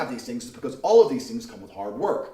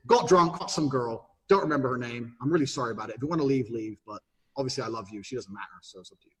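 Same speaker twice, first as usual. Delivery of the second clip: blunt confession, fading; 5 semitones lower than usual. Retold or imitated. Frank confession to girlfriend.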